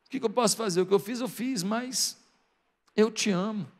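soft, halting plea, mildly tearful; tearful pleading. Acted. Peter declaring love to Jesus after failing, softly tearful. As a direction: plead quietly, faltering before the last words. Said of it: "já com lágrima nos olhos".

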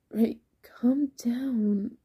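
slow, breathy hush; slow right down to settle a panicking friend; calming. Acted. Norman tries to settle frantic Ray, calming.

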